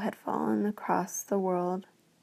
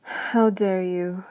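growling beast; slower than usual. Acted. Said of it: "it growled".

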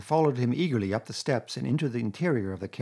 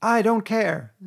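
higher, louder, firm I; doggedly; 10 semitones higher, 7 dB louder, slower than usual. A narrator's reading. Rat refusing Toad's trip, dogged. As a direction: dig in stubbornly. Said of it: "said the Rat doggedly".

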